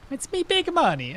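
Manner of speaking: high, creaky precious gold with a brogue; Irish Gollum. Pretend. Streamer keeps trying Irish Gollum for chat, high and greedy. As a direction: coo over the gold like a greedy creature. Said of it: "that's not gonna work either".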